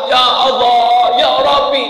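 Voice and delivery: high, stretched-out prayer call; drawn-out imploring cry; voiced supplication. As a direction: imitate a pilgrim praying aloud. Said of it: "Ada yang berdoa".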